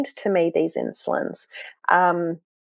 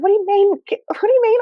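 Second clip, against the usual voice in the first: much higher, retold stunned question; shocked disbelief; 14 semitones higher than usual. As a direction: recreate the moment she couldn't believe it.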